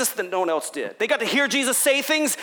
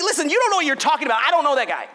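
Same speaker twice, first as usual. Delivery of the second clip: heated denial; 5 semitones higher, much faster than usual. Retold or imitated.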